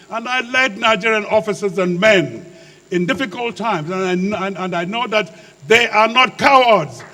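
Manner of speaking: impassioned speech building to a loud peak; passionate oratory. Real, not acted. Former officer vouching that his soldiers are no cowards, passionate. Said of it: "I speak like this passionately".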